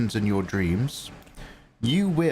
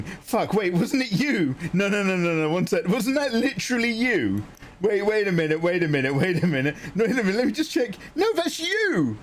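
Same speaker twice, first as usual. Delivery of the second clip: high, rising disbelieving laughter; surprised disbelief; 9 semitones higher than usual. Real, not acted. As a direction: realise it was them all along. Realises it was him.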